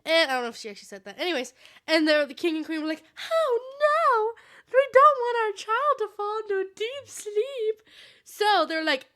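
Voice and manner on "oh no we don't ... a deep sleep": high, loud mock wail; hammed-up tearful lament, drawn out; distraught parents. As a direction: wail in pretend royal dismay. Acting out distraught king and queen.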